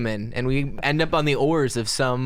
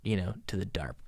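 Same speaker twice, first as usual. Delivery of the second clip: spooky whisper; 3 semitones lower, 11 dB quieter than usual. Real, not acted. Describing deep ocean fear.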